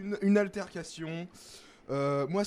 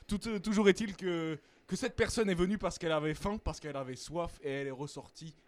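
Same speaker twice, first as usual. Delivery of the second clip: put-on Belgian accent. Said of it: "j'ai un accent belge".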